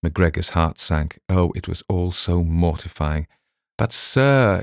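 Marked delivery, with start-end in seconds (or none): 3.8-4.6 mildly raised, half-hearted wail; a touch of a wail of protest. Acted. Sergeant protesting to his boss with a mild wail. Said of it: "he wailed".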